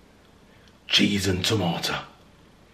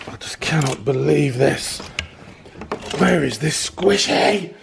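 exasperated; 6 semitones higher than usual. Real, not acted. Exasperated search.

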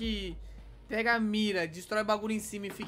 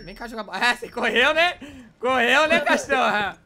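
louder and louder mocking taunt; 3 semitones higher, 10 dB louder than usual. Real, not acted. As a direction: rub the win in their face. Taunting enemy after kill. (provocação aos berros)

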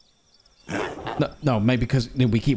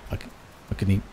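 whispering; 5 semitones lower, 6 dB quieter, much faster than usual. Real, not acted. Sudden hushed realization.

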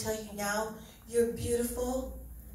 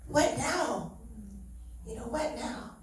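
retold crying to God; slower than usual. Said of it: "I remember crying to God and saying".

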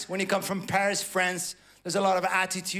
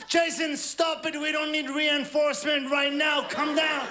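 exasperated plea; 6 semitones higher than usual. Acted. Acted plea to frantic shop assistant.

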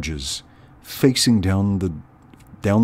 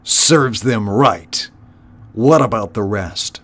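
snarled; 3 dB louder than usual. Acted. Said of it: "snarled Clooney".

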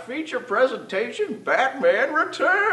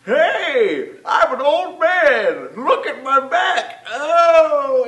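old man impression; 5 dB louder, much slower than usual.

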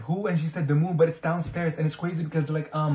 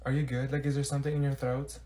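ordinary talk

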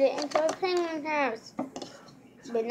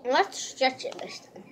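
whispering; 4 dB quieter than usual. Real, not acted. Whispering while tasting candy.

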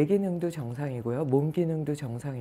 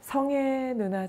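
calling out; 9 semitones higher, much slower than usual. Retold or imitated. Calling sister by name.

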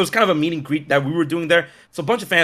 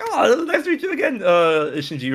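laughing reply; 6 semitones higher than usual. Retold or imitated. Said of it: "And I'm like".

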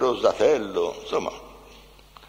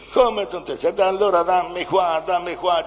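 retold anger; 4 semitones higher, 4 dB louder than usual. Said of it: "E gli feci dire".

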